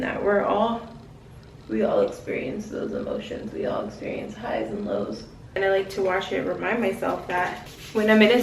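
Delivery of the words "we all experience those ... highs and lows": soft whispered aside. Real, not acted. Sharing a truth with viewers, whispered softly. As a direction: breathe it as a confiding whisper.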